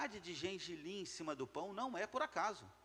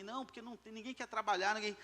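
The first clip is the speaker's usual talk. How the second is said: higher-pitched imitation of excuse-makers; mock complaint; 5 semitones higher, faster than usual. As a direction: mimic people complaining in a raised voice. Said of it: "as pessoas falar pra mim".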